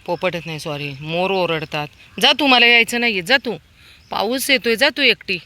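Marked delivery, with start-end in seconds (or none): 2.2-5.4 raised, higher-pitched dismissal; impatient scolding. Real, not acted. Woman refusing to follow dog into rain, impatient scolding.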